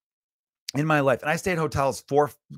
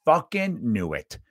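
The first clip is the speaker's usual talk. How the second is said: slow, drawn-out "knew it"; retold vindication; slower than usual. Guest learns of the wrong card, slow retold vindication. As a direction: stretch each word in retold vindication. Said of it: "out loud said".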